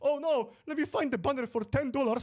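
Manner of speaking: mocking whiny voice. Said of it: "mocking opponent's vanity".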